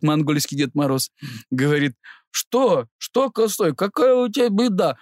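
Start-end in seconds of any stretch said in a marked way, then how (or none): 2.3-5.0 stifled laughter. Retold or imitated. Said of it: "сам тоже начинает раскалываться потихонечку".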